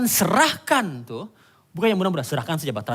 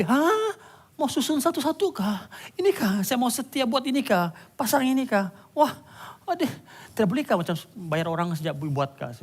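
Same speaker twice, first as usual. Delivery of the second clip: incredulous whining; 6 semitones higher than usual. Retold or imitated. People balking at the work.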